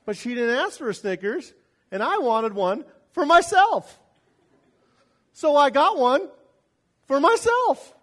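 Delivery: loud, high, indignant self-justification; mock outrage, loud and high. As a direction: whine it like a petulant kid. Preacher mocks his own selfishness.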